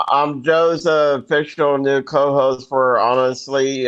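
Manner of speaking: understated, unexcited announcement. Real, not acted. New co-host announcing his job to listeners, unexcited. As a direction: share the news with little excitement. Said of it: "No need to sound excited about it".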